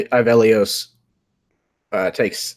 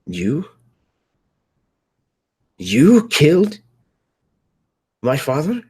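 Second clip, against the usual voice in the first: outraged accusation; 8 semitones higher, 5 dB louder than usual. Acted. Avelios to his father's killer, rising outrage. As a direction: build from a stunned question to a high outburst.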